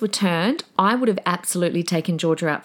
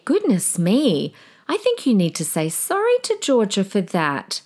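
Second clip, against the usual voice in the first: firm without sounding mean; gentle teacher voice; 2 semitones higher than usual. Shown as a demonstration. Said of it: "you can hear how my voice just sounds like it doesn't sound like I'm being really mean".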